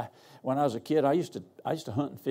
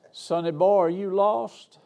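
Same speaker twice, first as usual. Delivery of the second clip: lightly voiced country farm woman, higher; a hint of backwoods farm wife; Ma Kettle type; 5 semitones higher, 5 dB louder than usual. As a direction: call out higher and louder, like a rural lady. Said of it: "She looked like Ma Kettle off the farm".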